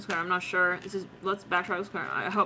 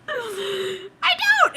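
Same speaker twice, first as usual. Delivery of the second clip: high comic whine of panic; mock wailed admission; 12 semitones higher than usual. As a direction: wail it helplessly, hamming it up. Acting the hopeless skater's admission.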